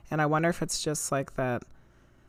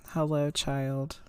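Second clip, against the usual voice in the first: slow breathy ghost whisper; slower than usual. Retold or imitated. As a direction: breathe it out slowly like a spirit. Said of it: "Very breathy".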